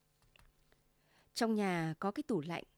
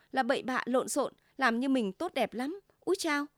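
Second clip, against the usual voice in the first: louder, fast bickering; heated quarrel; 3 semitones higher, 5 dB louder than usual. Acted. Husband and wife bickering heatedly, raised voices. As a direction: trade barbs, voice raised.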